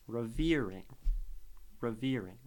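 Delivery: revering with weight on "veer"; stress on the middle of revering. Shown as a demonstration. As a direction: lean on the middle syllable of revering. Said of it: "Veer is where the weight is".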